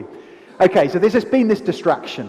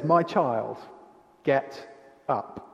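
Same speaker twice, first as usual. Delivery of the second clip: soft, tender wake-up call; 4 semitones lower, 6 dB quieter, much slower than usual. Retold or imitated. Jesus wakes the dead girl.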